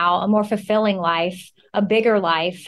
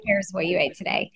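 whisper; 5 dB quieter than usual. Real, not acted. Host mocking what-I-eat posts.

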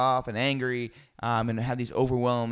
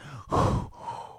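imitated hot breathing. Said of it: "this hot breath that's just breathing on me".

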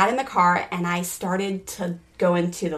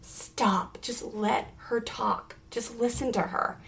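soft, slow whisper to herself; quiet slow inner warning; whispered self-command; 3 semitones higher, 7 dB quieter, slower than usual. Retold or imitated. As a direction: slowly hush yourself to stop. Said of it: "had to be like".

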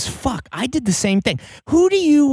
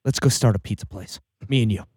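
mock serious; 11 semitones lower, 4 dB quieter than usual. Real, not acted. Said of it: "Let's be serious".

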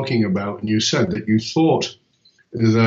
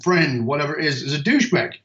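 exasperated rant; 3 semitones higher than usual. Retold or imitated. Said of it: "looked at a friend and gone".

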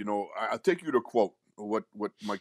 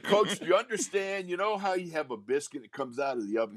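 a hint of a West Virginia twang, higher; light West Virginia twang; 5 semitones higher than usual. Guard pleading with his coach in a light West Virginia twang. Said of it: "He had a West Virginia twang".

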